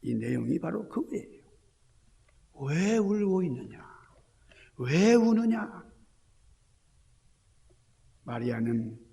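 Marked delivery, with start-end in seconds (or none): 2.6-5.8 slow, tender question; Jesus asking Mary. Acted. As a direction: draw the words out gently. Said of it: "예수님께서 마리아에게 물으시는". (마리아에게 묻는 주님의 느리고 다정한 음성)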